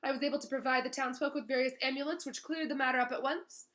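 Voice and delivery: a touch of smug self-importance; boastful Lockhart. Acted. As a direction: brag about past heroics. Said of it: "said Lockhart".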